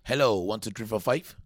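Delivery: lightly mimicked mic check; mock someone's way of testing the mic; teasing mimicry. Guest teasing the host over his mic test, playful mimicry. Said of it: "You taking the piss out of me?".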